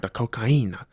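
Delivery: softly mimicked "cocaína", stressed on the ee; imitated Spanish pronunciation. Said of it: "Did he really say it like cocaína?".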